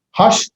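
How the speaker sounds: "Hash" cut off on a held sh; first shin. Shown as a demonstration. Teacher reading the transliteration, sh closing "Hash". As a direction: end "Hash" on sh, as its own syllable. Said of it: "it has two shins".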